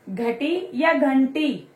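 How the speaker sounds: "घटी" plain, then "घंटी" with a clear nasal n, slowly; slow contrast. Shown as a demonstration. Teacher contrasting two words for pupils, slow and clear. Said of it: "दोनों का बोलने का भी वे अलग हुआ".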